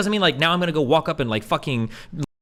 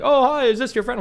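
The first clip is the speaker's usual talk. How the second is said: higher, louder imitation of the creep; mock creepy guy; 9 semitones higher, 5 dB louder than usual. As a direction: play the lurking guy's fake friendliness. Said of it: "he's like".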